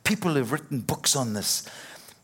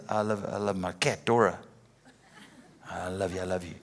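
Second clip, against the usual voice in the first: doting on the cat; 5 semitones lower, 3 dB quieter, faster than usual. Retold or imitated. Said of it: "I even say".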